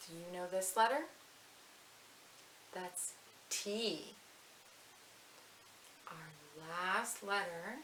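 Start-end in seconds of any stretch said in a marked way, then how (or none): 6.1-7.8 whisper. Real, not acted. Unvoiced whisper.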